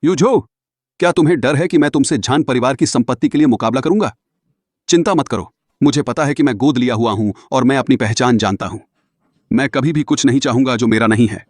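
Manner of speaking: loud, heated reproach; wounded, forceful self-defence; indignant confrontation. Acted. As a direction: confront him, pushing the volume. Hurt adopted brother confronts Yu Jo.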